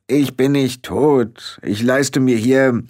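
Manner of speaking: blustering indignation; indignant. A narrator's reading. Rob indignantly denies being dead.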